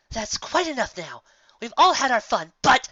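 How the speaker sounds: teacher straining to sound firm; forced authority. Acted. Teacher trying to calm the class, forced authority. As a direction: put on authority you don't quite have. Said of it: "with a somewhat forced authority".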